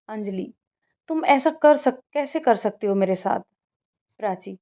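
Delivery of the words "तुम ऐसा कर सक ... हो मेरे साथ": upset. Acted. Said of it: "इतने गुस्से में क्यों है तू".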